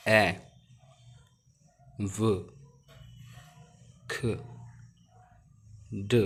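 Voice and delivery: each letter as its bare sound, one by one with pauses; phonics sounds. Shown as a demonstration. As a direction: sound out the alphabet slowly. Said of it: "उनके sound को produce कर रहा हूँ".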